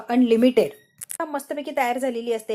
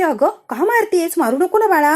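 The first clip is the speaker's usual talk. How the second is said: loud mock plea; 5 semitones higher, 6 dB louder than usual. Ragini pleads Anika stop beating.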